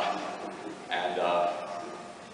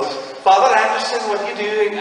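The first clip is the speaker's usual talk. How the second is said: put-on higher, slow, sing-song Welsh accent; 11 semitones higher, 6 dB louder than usual. Nun Yumi calling to Father Anderson, Welsh accent. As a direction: play Yumi with a Welsh lilt. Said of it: "They make them Welsh".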